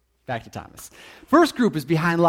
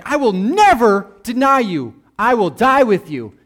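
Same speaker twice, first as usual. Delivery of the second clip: boastful Peter; 7 semitones higher, 10 dB louder than usual. Retold or imitated. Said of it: "Peter's like".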